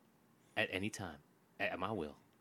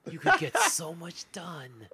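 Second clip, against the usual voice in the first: slow secretive whisper; 3 dB quieter, slower than usual. Pretend. Bachelor pitch delivered conspiratorially.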